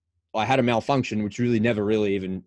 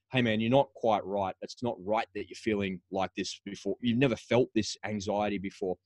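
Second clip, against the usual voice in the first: softer, gentle words to himself; kind self-talk; 2 semitones lower, 7 dB quieter than usual. Retold or imitated. What his self-talk should have sounded like, gentle and soft. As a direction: reassure yourself gently, like a friend. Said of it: "the self-talk should have been".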